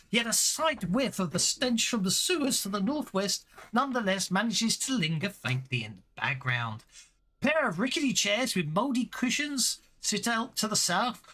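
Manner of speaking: descriptive scene-setting read; game master narration. Acted. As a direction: paint the room for the players.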